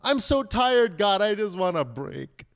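weary plea starting high, then dropping; lightly acted whine for relief; mock crying out. Tired believers crying out to God, mock plea. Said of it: "we go to him and we cry out".

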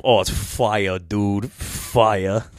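imitated Boston accent with dropped R's; Boston-accented hype. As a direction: answer like a Boston homie. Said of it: "that little motherfucker sounded Boston-y".

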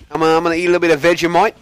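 fast, high mock Aussie accent; playful fake Australian voice; bad Australian accent. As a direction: rattle it off in a hammed-up Australian accent. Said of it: "that horrible freaking accent".

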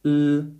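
L-I-T split into separate sounds; sounded out letter by letter. Shown as a demonstration. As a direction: sound out L-I-T for children. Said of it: "break it up".

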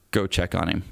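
low, understated voice in the head; little inner voice. Retold or imitated. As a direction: drop the pitch for a calm inner command. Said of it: "that little voice in my head said".

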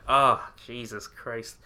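slow, drawn-out exasperation; exasperated groan. Retold or imitated. Reacting to a cheesy movie joke, slow and exasperated. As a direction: drag it out like you can't believe it. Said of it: "I'm like".

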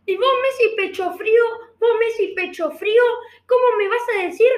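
mocking rioplatense Spanish, heavy vos and che; Argentine accent. Teasing Messi about leaving, in Argentine accent. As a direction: tease a teammate in a put-on Argentine accent.

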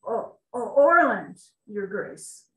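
stuttering, then a sudden loud name; gulping out his name in fear; frightened boy stammers to the king; nervous stammer. Acted. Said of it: "between swallows".

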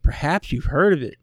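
lightly voiced cheesy movie heroine, deadpan pitch line; mock character voice. Co-host retelling a comic book heroine's line, mildly hammed up. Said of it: "I don't know why she's talking like this".

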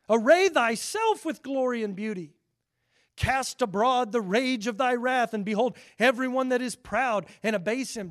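loud, ringing scripture reading at full force; booming King James preaching. Acted. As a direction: proclaim it like God thundering.

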